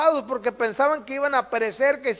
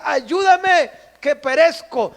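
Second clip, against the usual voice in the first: desperate plea; 3 semitones higher, 5 dB louder, slower than usual. Acted. Peter sinking in the sea, begging Jesus desperately. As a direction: cry out like a man going under.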